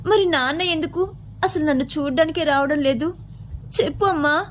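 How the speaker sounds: the daughter begging her mother for an answer; small girl's pleading questions; pleading little girl. Acted.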